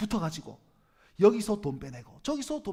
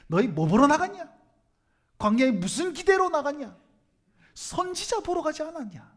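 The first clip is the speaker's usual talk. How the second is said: retold challenge to crowd; 4 semitones higher, 3 dB louder than usual. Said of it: "무리들에 와가지고 뭐라고 얘기합니까".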